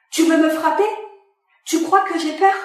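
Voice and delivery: défie-le, plus haut et plus fort; défi agressif. Acted. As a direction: nargue sans reculer. Second agent defies threat. (l'agente défie le père qui menace, agressive)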